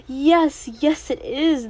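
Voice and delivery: loud eager yes, yes, slowing down; delighted cry. A narrator's reading. Merchant eagerly agreeing with the princess, loud and delighted. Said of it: "the merchant cried".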